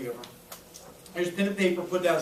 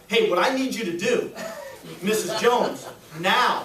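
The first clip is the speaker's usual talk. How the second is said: commanding demand; 4 dB louder than usual. Shown as a demonstration. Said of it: "You're not saying it like that".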